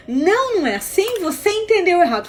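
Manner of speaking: loud, high protest; acted quarrel retort; retold angry objection. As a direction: cut in to contradict, mock-indignant. Retold quarrel, other side objects.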